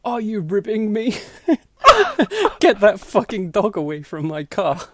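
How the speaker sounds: an exasperated holler at the officer; yelling at cop. Retold or imitated. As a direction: yell through the window. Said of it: "yells at cop".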